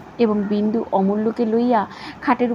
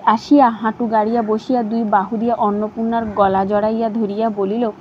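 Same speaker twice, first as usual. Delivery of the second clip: ordinary delivery, nothing marked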